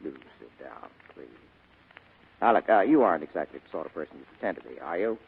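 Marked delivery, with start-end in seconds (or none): 0.0-1.3 mock demure, prim echo; mocking schoolgirl manner. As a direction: parrot her coy manner mockingly. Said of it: "schoolgirl manner, stammering, blushing".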